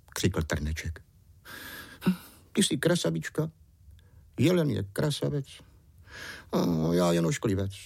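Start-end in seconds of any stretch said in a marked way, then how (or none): 2.1-7.7 sulky imp. A narrator's reading. Imp complains about ugliness.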